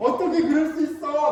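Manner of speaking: mock resentful, high, loud, whiny childlike voice.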